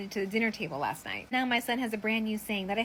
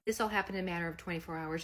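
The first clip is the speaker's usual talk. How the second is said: ordinary talk, nothing marked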